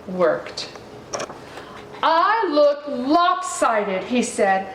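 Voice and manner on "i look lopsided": mopey. Acted. Ganesha sulks.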